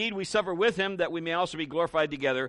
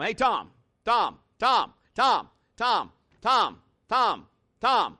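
calling out Tom, louder and louder; calling a kid's name; 3 semitones higher, 4 dB louder, slower than usual. Retold or imitated. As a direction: keep calling until he answers. Calling a kid who won't answer.

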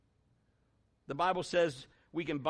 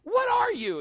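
much higher, louder stunned cry; rough dude stunned by the healing, high astonished cry; astonished question; 7 dB louder, slower than usual. Retold or imitated. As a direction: blurt it out in amazement. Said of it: "this is what the guy says".

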